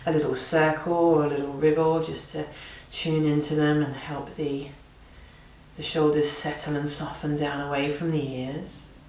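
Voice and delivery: gentle yoga-teacher guidance with long pauses; guided relaxation. Real, not acted. Yoga teacher settling students into seated breathing, gentle guided relaxation. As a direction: guide them unhurriedly into softening and breath, pausing between phrases.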